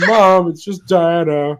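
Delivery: slow, exasperated shout upstairs; calling back. Acted. Son answering his mother upstairs, calling back. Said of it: "he just goes".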